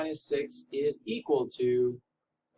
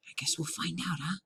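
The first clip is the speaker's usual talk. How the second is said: put-on Spanish accent; 3 semitones higher, 8 dB quieter than usual. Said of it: "Can't do the Spanish accent the whole time".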